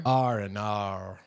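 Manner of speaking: R and R drawn out low like an Australian "oh no"; mock Australian dismay. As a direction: groan out a slow, low Australian-style R and R. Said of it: "tell me some bad news".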